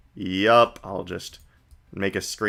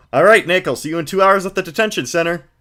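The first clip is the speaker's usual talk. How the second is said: put-on higher, brighter girl voice; Maya voice; 7 semitones higher, 3 dB louder, faster than usual. Streamer voicing Maya to the viewers, girlish and high. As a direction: play an eager young girl.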